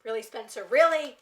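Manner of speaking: disbelieving reproach; exasperated really. Real, not acted. Scolding character on screen.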